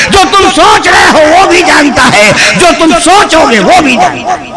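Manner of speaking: full-force shouted sermon warning; fervent preaching. Acted. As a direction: drive each warning home like a fiery preacher. (जोशीली, ललकारती तकरीर)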